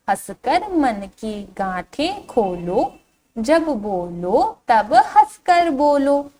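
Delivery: slow, singsong verse reading; drawn-out, lilting children's poem; poem recitation. Shown as a demonstration. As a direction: recite slowly to a class, stretching the vowels. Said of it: "इस कविता को एक बार फिर से पढ़ते हैं".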